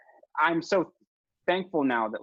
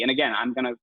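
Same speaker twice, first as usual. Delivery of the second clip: usual speaking voice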